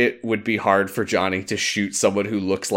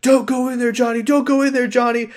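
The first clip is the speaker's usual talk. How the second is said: high, mildly raised warning shout; mock yell; 12 semitones higher, faster than usual. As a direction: call him back over the radio, hammed up. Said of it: "Walsh is screaming at him".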